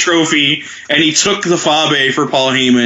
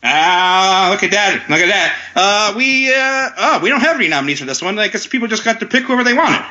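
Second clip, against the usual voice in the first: put-on grand old ballroom announcer; 4 semitones higher than usual. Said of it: "old-timey announcer Billy Robinson".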